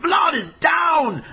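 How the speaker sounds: triumphant slow knockout call; excited shout. Real, not acted. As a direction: announce the knockout to the crowd. Vlad knocked out.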